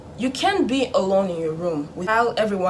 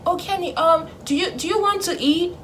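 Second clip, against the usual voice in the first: much higher, coaxing mock-parent voice; soothing parent; 9 semitones higher, 5 dB louder than usual. Parent smoothing things over after punishment, soothing. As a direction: imitate a parent sweetly making up, pitched way up. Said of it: "soothe you".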